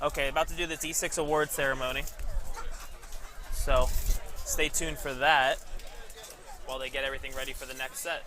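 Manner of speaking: light announcer read, slowing at stay tuned. Acted. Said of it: "I put on my announcer voice".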